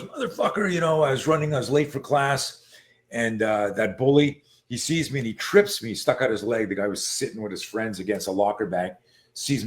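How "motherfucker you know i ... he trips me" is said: higher-pitched retold outburst; mock-furious, retelling a kid's grievance; worked-up kid venting, acted lightly; retold fury. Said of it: "he's furious".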